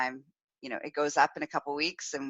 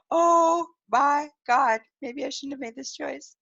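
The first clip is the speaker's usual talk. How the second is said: mock panic; 8 semitones higher, 5 dB louder, slower than usual. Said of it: "a little bit of panic".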